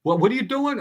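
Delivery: imitating fussing pitcher. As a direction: stammer it out like a flustered pitcher, lightly acted. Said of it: "he's talking like this".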